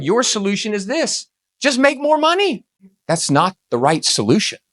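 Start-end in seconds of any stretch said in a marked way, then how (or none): 0.0-2.6 a high, mocking take on the easy answer; mocking quote. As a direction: toss it off like a naive fix, lightly mocked. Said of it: "And as John said".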